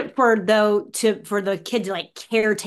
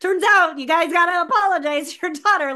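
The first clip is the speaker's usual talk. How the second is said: higher, louder, breezy mock news for parents; mock announcement to parents; 9 semitones higher, 4 dB louder than usual. Author imitating herself telling parents, higher and louder. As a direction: pitch it up like breaking surprising news. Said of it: "did I expect to have to tell parents".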